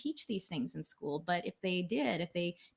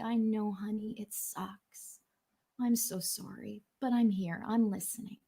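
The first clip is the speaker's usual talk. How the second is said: comforting parent; 2 semitones higher than usual. Retold or imitated. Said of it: "a good parent is just there to listen and say".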